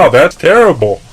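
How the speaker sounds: fake sympathy. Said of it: "I was like".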